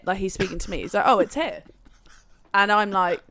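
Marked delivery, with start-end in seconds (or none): 1.1-1.6 lightly imitated Jamaican accent; mild mock Jamaican accent. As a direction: retell it with a touch of Jamaican accent. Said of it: "a very thick Jamaican accent".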